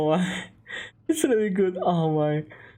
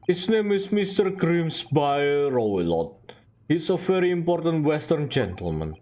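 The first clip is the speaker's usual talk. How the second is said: put-on Russian-accented sailor. Sailor showing visitors the first-class cabins, Russian accent. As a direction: show off the ship in Russian accent.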